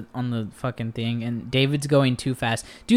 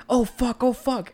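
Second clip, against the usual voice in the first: high-pitched mock panic; imitated panic; 9 semitones higher than usual. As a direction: mimic someone seeing a crash coming. Acts out David watching the crash.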